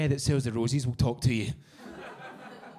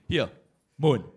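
Scottish hawker call. Retold or imitated. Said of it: "Scottish guy going up to people going".

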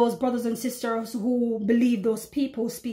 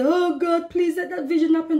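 pleading prayer; 5 semitones higher, 4 dB louder than usual. Retold or imitated. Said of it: "go on their knee and say".

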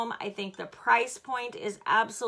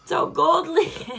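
whispered giggle; 6 semitones higher, 8 dB louder, slower than usual. Real, not acted. Giggly aside while hoarse.

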